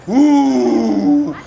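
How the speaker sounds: long, drawn-out awed "ooh"; hushed disbelief stretched into one sound; crowd awe. Acted. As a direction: gasp like a stunned crowd. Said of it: "with disbelief and awe".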